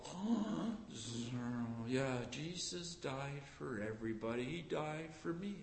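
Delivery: soft, bored shrug of a voice; mock indifference. Preacher mimicking careless churchgoers, mock shrugging. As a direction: toss it off like it means nothing. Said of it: "people go".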